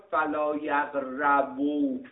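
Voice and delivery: یقربوا with a clear "a" after the r, "yaq-RA-bu"; fatha on the ra. Shown as a demonstration. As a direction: slowly spell out یقربوا with an open "ra". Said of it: "به فتح را خداوند ذکر کرده".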